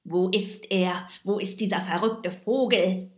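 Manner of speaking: shouting. A narrator's reading. Villain shouts for the escaped penguin. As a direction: bellow it across the jelly. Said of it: "schrie er lauthals".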